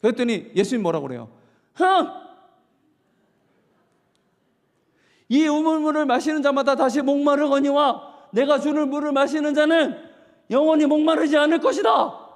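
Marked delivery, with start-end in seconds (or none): 1.7-12.2 proclaiming Jesus. Retold or imitated. Jesus answers, voiced loudly.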